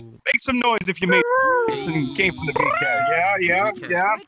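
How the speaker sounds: big emcee crowd voice; club emcee. Acted. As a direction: sell it to the crowd. Comedy club host hyping crowd.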